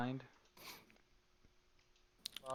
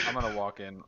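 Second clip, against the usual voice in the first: normal talking voice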